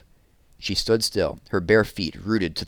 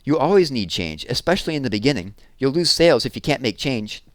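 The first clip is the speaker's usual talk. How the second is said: insisting; 5 semitones higher than usual. Acted. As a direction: insist she's right. Jessie keeps insisting.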